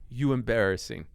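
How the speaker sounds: mock shaming in a Turkish accent; father's Turkish-accented put-down. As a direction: imitate a disapproving Turkish dad. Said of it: "In his Tur-, deep Turkish accent".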